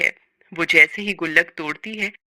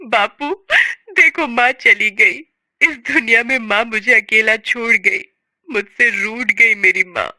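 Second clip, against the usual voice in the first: weep as you tell him she's gone; crying. Acted. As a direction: daughter sobbing to her father over mother's death. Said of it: "बिंदिया रोते हुए उससे कहती है".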